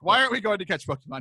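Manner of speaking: lightly voiced puzzled son; confused child, retold. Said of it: "He's very confused".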